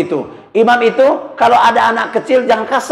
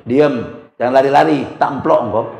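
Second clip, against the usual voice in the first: low hushing to grandchild; 6 semitones lower than usual. Retold or imitated. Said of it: "Saya bilang sama cucu".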